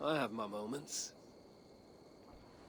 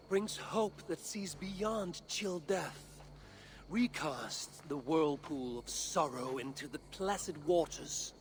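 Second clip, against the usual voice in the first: honeyed words. Acted. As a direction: savour each line like a solemn ode. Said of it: "I can even give you the honeyed words".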